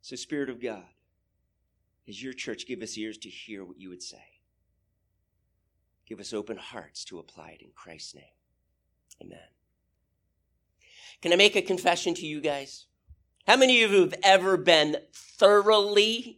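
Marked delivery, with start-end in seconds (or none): 0.0-9.4 soft, low, reverent closing prayer; hushed prayer. Real, not acted. Preacher asking God for open hearts, hushed prayer. 15.1-16.4 "thoroughly" punched loud and drawn out; stress on thoroughly. Real, not acted. Preacher asking who has been embarrassed, stressing "thoroughly". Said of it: "you hear me emphasizing that word thoroughly".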